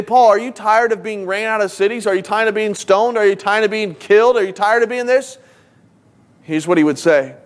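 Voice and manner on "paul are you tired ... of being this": insistent string of questions, slightly raised pitch; pressing questions. Acted. Someone asking Paul about his sufferings, pressing. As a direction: pile up the questions, each lifting at the end.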